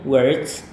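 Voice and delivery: words said as /werts/; pronunciation demo. Shown as a demonstration. Teacher repeats words for students. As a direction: model words clearly for learners. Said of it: "once again".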